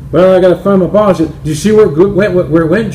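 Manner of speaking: a hint of a golfer hunting his ball; searching Bill.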